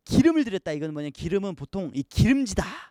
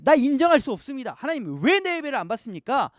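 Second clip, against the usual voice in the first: raised, indignant protest to God; angry Cain protesting; 5 semitones higher than usual. Pretend. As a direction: play Cain demanding to be accepted. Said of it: "화가 나가지고 막 하나님께".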